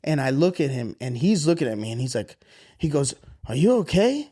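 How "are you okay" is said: imitating his son. Voicing son in story.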